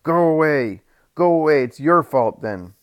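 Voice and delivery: loud, high furious yell; angry crowd yell. Acted. The crowd yells at Jesus to go, high and furious. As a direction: drive him off in rage.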